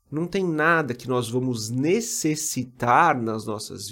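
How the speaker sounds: necessitar slow and weighty; stress on necessitar. Shown as a demonstration. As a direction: lean on the word necessitar. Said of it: "veja bem a ênfase que eu dei à palavra necessitar".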